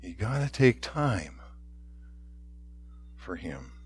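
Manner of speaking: soft, low and hushed; hushed close. Real, not acted. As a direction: let the voice drop away gently. Preacher closing softly.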